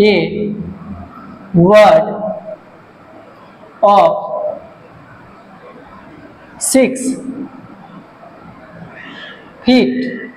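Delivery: very slow, long pauses between single words; word-by-word dictation. Shown as a demonstration. Teacher dictating the definition to pupils, word by word. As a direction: dictate it one word at a time.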